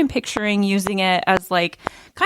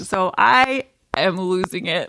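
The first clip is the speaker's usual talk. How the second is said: slow words through laughter; laughing; 3 semitones higher, slower than usual. Real, not acted. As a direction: talk while laughing hard. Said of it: "I'm laughing so hard".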